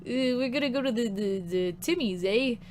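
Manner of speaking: badly faked Canadian accent, fumbling along. Shown as a demonstration. Streamer trying and failing at Canadian, bad Canadian accent. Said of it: "I can't do a Canadian accent".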